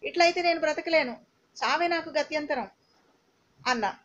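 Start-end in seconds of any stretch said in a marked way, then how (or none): 0.1-2.7 enraged outburst. Retold or imitated. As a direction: fling the words out in fury. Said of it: "ఆవేశం పరాకాష్ఠకు చేరింది".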